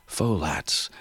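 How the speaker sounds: "Folat" breathed out, unvoiced, falling; whispered recollection. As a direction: whisper "Folat" as a memory returns. Recalling name under breath.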